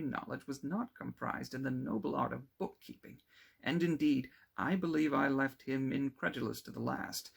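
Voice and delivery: lightly voiced, brighter young man; chatty and amused, telling his news; cheerful young friend. Clerval telling Victor about persuading his father, cheerful.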